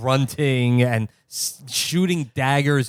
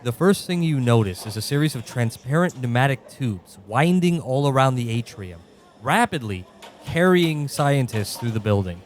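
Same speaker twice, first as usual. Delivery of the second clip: measured storyteller narration; game master narration. A narrator's reading. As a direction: set the scene like a game master. GM scene setting continues.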